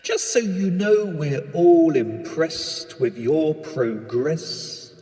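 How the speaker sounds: understated radio control voice; launch control voice. Acted. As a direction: talk down to the astronaut like calm ground control. Launch control addresses astronaut.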